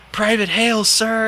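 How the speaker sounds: high, loud snapped reply; military reply. Retold or imitated. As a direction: sound off like a scared private. Private reporting to commander.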